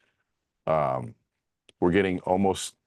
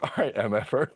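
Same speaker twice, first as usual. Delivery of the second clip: a hint of angry muttering; mock angry grumble; 5 semitones higher than usual. Retelling her angry reply to her friend, mild mock growl. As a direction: growl it under the breath, half joking. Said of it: "I got so angry".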